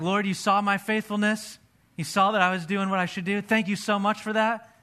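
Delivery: beaming thanks to the Lord; grateful praise. Retold or imitated. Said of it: "I was like".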